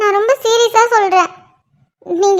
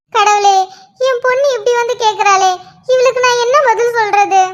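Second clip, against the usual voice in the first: crying, helpless appeal to God; tearful anguish; 2 semitones higher than usual. Acted. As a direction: lament through tears, at a loss for an answer. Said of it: "இப்ப எதுக்கு அழுதுட்டு இருக்கீங்க". (அழுகையோடு தவிப்பது)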